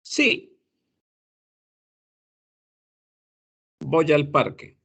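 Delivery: "Voy al parque" with "voy al" joined as "voyal"; linked answer. Shown as a demonstration. Teacher acting out the reply to the question. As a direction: join "voy" to "al" smoothly.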